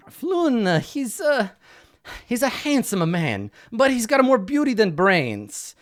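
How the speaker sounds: a hint of a fussy, flustered patron; quest giver voice.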